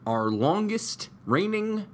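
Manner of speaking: slow, high, drawn-out hype; dramatic announcer voice. Acted. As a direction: build up the big reveal. Dramatic hype intro of returning guest.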